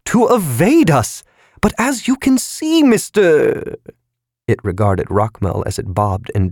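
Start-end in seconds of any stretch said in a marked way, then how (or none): 0.0-3.8 very high squeaky shout; shouting balloon. A narrator's reading. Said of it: "the creditor balloon shouted".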